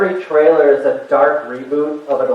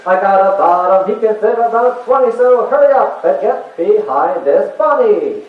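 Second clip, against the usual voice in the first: carnival barker voice; 5 semitones higher than usual. Retold or imitated. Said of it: "he just sounds like".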